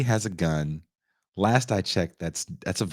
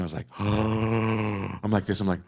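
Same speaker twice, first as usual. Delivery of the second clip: shocked gasp. Retold or imitated. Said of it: "I couldn't even yell".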